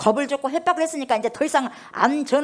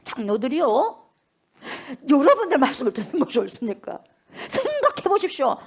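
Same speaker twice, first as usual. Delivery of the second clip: bold apostle. Retold or imitated. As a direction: dare them to think it over. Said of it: "제사장 앞에서 그러는 거예요".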